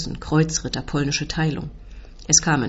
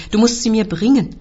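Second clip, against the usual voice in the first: raised, loud demand; high, insistent shout; roared; 5 semitones higher, 6 dB louder than usual. A narrator's reading. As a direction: bellow the order. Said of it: "brüllt der Onkel".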